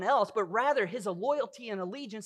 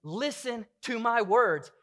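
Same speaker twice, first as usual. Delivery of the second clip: voicing David's plea, slower; 2 semitones higher, 3 dB louder, slower than usual. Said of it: "David is saying".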